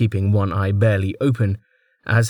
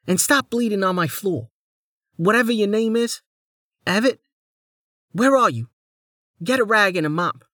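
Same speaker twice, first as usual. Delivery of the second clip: higher, bossy lady giving orders; haughty noblewoman; 12 semitones higher than usual. Acted. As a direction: snap orders at servants.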